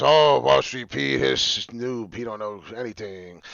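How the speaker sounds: slow, lightly voiced sneering commenter; a hint of a scoffing troll voice; mocking critics. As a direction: mimic the haters who call him a noob. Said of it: "and it's".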